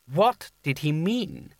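slow, insistent demand. Acted. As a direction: press for an answer. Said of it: "Coin demanded".

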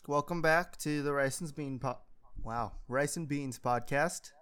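drowsy, slurring speech; sedated. Real, not acted. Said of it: "I'm already slurring my words".

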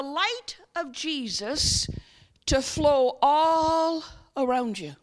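slow guided imagery with long pauses; guided meditation. Real, not acted. Preacher guiding congregation to imagine the light, slow and measured. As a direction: lead them slowly into the picture, stretching key words.

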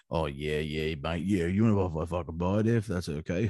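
mock gullible seller. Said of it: "that's gonna go".

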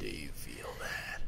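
slow, very soft whispery question; mock deep voice. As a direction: play at an ultra-deep voice, almost whispered. Joins deep voice game.

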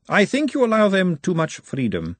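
a lady gently reproaching; lady character. A narrator's reading. Lady Margalotta speaks.

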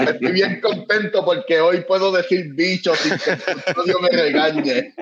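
words through giggles; chuckling through the line; laughing while talking. Real, not acted. Jokes about saying dirty word. (riendo mientras habla)

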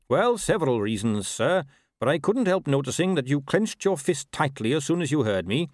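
lightly voiced polite horseman, measured reasoning; courteous rider deducing.

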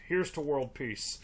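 imitating a bored, half-hearted toast; unenthusiastic. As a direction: toast with mild, jaded indifference. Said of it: "so unenthusiastically".

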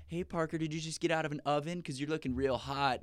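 high-pitched imitation of a flirt; cheesy pickup line. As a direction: lay on a corny come-on in mockery. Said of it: "these cheesy pickup lines".

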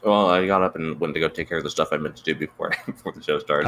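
eating while talking; talking through a bite of food; mouth full. Real, not acted. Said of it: "But I do hear you eating something".

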